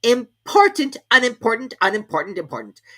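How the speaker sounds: high king voice trying words out; king testing words aloud; king's undertone. A narrator's reading. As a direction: weigh each word as the king. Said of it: "to himself in an undertone".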